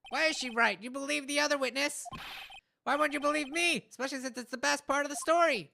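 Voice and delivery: loud, high goofy clown voice; silly clown. Acted. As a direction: ham it up like a circus clown. Mo the clown complains.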